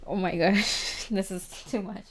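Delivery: real giggles breaking through; can't stop giggling at how cute it is; giggling, overwhelmed. Real, not acted. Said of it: "I'm literally crying right now".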